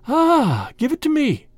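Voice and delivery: high-pitched, grasping cry; urgent demand. Acted. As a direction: demand it back at once, pitch leaping. Snake sees her last egg.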